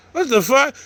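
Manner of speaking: high, startled disbelief; jolted pitch jump of disbelief; shocked what the fuck. Retold or imitated. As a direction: recoil at the sight of a double. Sees the twin appear.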